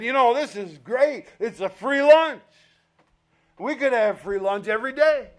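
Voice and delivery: lightly acted eager excitement; excited crowd. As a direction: voice a crowd pleased with a windfall. Crowd delighted by free food.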